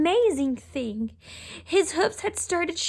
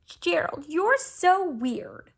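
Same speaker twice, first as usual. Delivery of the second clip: slow mocking drawl; sneering; 2 semitones higher, slower than usual. Animals teasing Gerald, slow mocking drawl. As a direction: stretch weird out cruelly. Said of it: "the animals all sneered".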